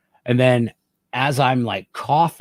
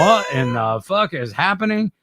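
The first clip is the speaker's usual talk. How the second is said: higher, louder bewildered cry; excited disbelief; 5 semitones higher, 4 dB louder than usual. Retold or imitated. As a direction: cry out in confusion. Retold tripping reaction.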